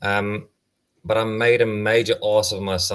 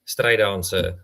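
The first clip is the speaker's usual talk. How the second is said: put-on Afrikaans accent; slower than usual. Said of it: "in my Afrikaans accent".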